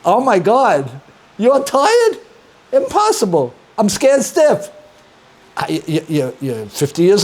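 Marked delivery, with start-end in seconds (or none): 0.0-4.7 much higher, louder hammed-up alarm; mock panic. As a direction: play the scared son in a hammed-up panic. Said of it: "I said".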